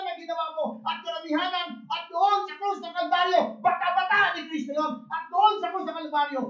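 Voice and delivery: loud, high, driving sermon voice; full-force pulpit preaching; fiery preaching. Acted. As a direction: preach it out to the whole congregation. Preaching climax about the cross.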